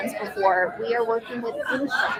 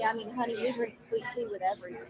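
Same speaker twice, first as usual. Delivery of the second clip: a light Southern drawl, a bit softer; 9 dB quieter, faster than usual. Pretend. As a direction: play a sweet Southern belle, just lightly. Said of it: "So we can go very Scarlett O'Hara".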